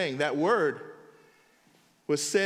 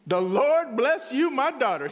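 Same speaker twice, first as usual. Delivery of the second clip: fired up; 4 semitones higher than usual. Retold or imitated. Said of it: "he's fired up".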